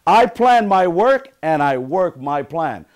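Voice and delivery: loud, slow motivational chant; emphatic affirmation. Shown as a demonstration. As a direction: drive each word home for the group. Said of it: "second affirmation I want you to say".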